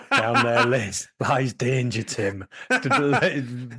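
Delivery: halting stab at a South African accent; tentative South African impression; attempted South African accent. Shown as a demonstration. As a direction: try South African, stumbling over it. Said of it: "Can you do South African?".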